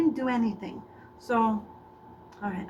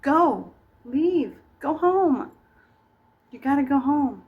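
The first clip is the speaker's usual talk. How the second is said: shooing out; 4 semitones higher, 5 dB louder, slower than usual. Acted. Shooing audience out.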